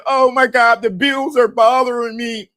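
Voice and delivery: hammed-up high crying whine; crying man. Man overwhelmed by bills, mock crying. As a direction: wail it in mock despair. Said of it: "And you crying".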